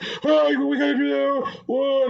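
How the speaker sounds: high-pitched mock shouting; imitated shouting. Stranger shouting at a new player mid-match, imitated high-pitched yell. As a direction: yell like a random player on voice comms. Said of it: "someone started shouting at me".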